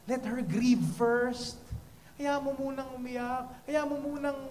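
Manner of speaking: very slow, pleading request; slow plea. Real, not acted. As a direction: let each word land softly. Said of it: "slow pleading".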